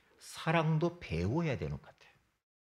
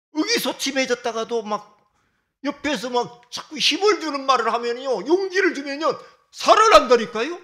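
building from raised to a loud, high preaching cry; rising preaching fervor; 9 semitones higher, 10 dB louder than usual. Real, not acted. Preacher urging the congregation about encouraging words, building to a loud cry. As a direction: drive it home, louder and higher each phrase.

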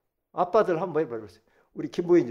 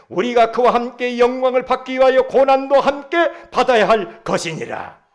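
firm, measured scripture declamation; declamatory preaching; 8 semitones higher, 15 dB louder than usual. Real, not acted. Preacher declaring sonship to the congregation, declamatory preaching. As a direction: proclaim it, building in force.

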